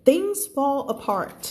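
drawn-out teacher read of things fall apart; each word stretched slowly. Shown as a demonstration. Teacher reading the phrase slowly to her class.

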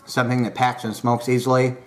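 talking around pipe stem; pipe in mouth. Real, not acted. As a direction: lips gripping pipe stem. Seen 0: Pipe stem held at lips throughout the words; absent before.

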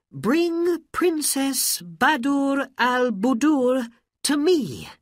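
high, loud, slow command; commanding order. Acted. Aladdin commanding the genie to bring the princess, loud. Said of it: "said Aladdin".

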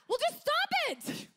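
high loud well just stop it; mock yell. Counselor answering the client's mom complaint, loud mock yell. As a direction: shout it dismissively. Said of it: "He's like".

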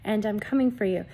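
loud, urgent proclamation in God's voice; forceful prophetic preaching. Acted. Delivers message in God's voice.

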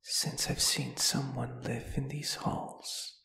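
breathy, drawn-out ghost's whisper; a lonely spirit whispering to a newcomer; long-dead spirit murmuring with eerie delight; ghostly whisper. Acted.

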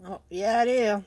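loud insistent comeback; insist, pushing back; emphatic retort. Real, not acted. Retorting to friend.

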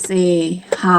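usual speaking voice

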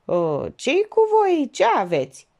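high, halting stammer; stammering surprise. A narrator's reading. The notary, startled by the silence, stammers. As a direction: stumble over the words, caught off guard. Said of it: "Se bâlbâi".

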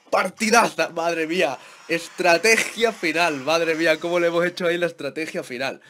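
loud, thrilled victory reaction; elated celebration. Real, not acted. Gamer celebrating the winning final strategy, elated. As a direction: revel in the win out loud.

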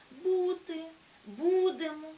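бути, будемо with loud, drawn-out БУ; stress on first syllable. Shown as a demonstration. Teacher showing present-tense stress, бути and будемо loud on БУ. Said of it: "має наголос на першому складі".

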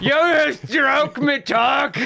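high slow mock British shout; mock English accent. Mocking a band's accent.

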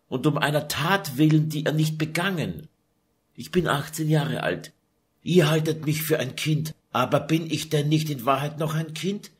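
lightly voiced desperate young duchess; young duchess pleading. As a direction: beg the monk with growing despair. Lucretia pleads with the monk.

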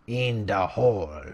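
slow, stretched "In the hall"; each word stretched out, falling at the end; drawn-out answer. Pretend. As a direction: answer yourself with slow, playful words. Repeats the question drawn out.

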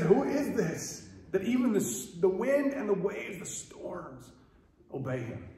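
high, slow awestruck question; awed fear. Retold or imitated. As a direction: ask it trembling in awe. Afraid disciples after storm.

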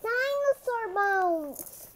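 drawn-out delighted discovery; thrilled reveal. A narrator's reading. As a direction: announce the find in awe. Narrator reveals found bones.

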